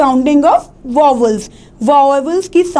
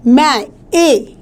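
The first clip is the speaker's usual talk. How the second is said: slow मै, then its vowel ए alone; stressed vowel; much slower than usual. Shown as a demonstration. Teacher pointing out the stressed vowel, मै and ए drawn out. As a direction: isolate मै and hold its ए sound. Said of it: "वहाँ पे देना है stress".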